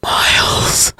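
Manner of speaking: weak, drawn-out whisper. A narrator's reading. Freezing sister whispers after her departed brother, whisper. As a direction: whisper the name with no voice left. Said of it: "Allison whispered as her teeth began to chatter".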